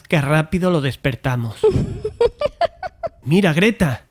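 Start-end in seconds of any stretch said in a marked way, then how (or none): 1.6-3.2 sneaky laugh. Acted. Teasing to wake friend.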